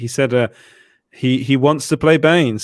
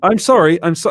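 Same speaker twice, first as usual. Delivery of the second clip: mock British apology; 5 semitones higher, 4 dB louder than usual. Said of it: "That's what we always say".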